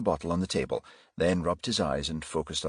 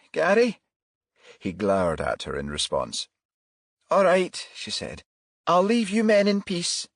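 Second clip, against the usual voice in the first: flustered mother; 4 semitones higher, 4 dB louder than usual. Acted. Flustered mother offering tea.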